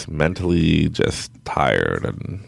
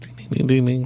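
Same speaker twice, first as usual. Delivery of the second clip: higher-pitched repeated dinging; imitated breakfast buzzer; 9 semitones higher than usual. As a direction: mimic a morning buzzer. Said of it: "the buzzers are going".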